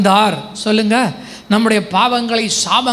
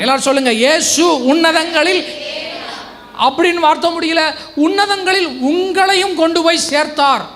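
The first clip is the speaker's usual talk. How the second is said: raised, ringing scripture proclamation; fervent preaching; 3 semitones higher than usual. Real, not acted. Preacher quoting Paul to the congregation, fervent preaching. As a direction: declare it as a great truth.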